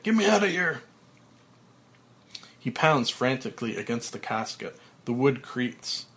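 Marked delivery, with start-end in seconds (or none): 0.0-0.8 high, loud frantic yell; berserk yell. Acted. Frank pounding the coffin lid, frantic high yell. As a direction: scream to be let out. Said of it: "Frank goes berserk".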